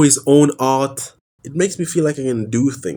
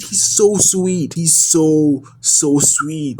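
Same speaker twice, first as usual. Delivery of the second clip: slow tender gush; 2 semitones higher, much slower than usual. Real, not acted. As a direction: melt over each word, very slow. Gushing over the Andor droid.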